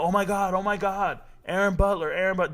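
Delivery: mock excitement. Mimicking fans commenting about a high school commit, mock excitement. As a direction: lightly mimic a breathless, repetitive commenter.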